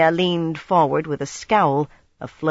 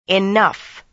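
wintry; 4 semitones higher, 4 dB louder than usual. Acted. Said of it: "in a wintry voice".

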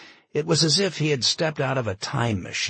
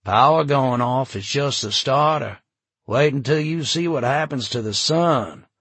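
doom prophet; 5 semitones higher, 6 dB louder than usual. Acted. Jim preaching doom to crowd.

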